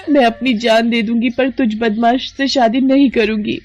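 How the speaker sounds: high, loud cry of refusal; defiant shouting. Acted. Young woman refusing a thug's forced marriage, defiant shout. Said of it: "इतनी जोर जोर से कौन चिल्ला रहा है".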